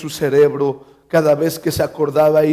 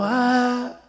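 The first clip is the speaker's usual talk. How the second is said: mock child's scream; 7 semitones higher, 4 dB quieter than usual. Child screaming as visitors arrive, high mock wail. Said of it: "y otro gritando".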